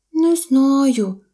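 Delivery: high little creature voice; baby mammoth. A narrator's reading. Baby mammoth answers the deer, high little voice. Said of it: "сказало мамонтеня".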